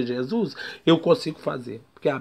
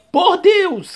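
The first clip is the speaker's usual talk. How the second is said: loud high demon plea; demon crying out; 10 dB louder than usual. Retold or imitated. Preacher voicing the demon begging Jesus, loud plea. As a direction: cry it out, begging. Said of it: "diabo gritando".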